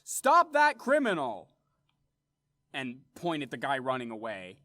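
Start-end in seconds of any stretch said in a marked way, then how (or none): 0.0-1.5 high, slow, loud yell; a drawn-out hue and cry, high and loud. Acted. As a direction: shout it after the runaway. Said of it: "I'm actually gonna yell out".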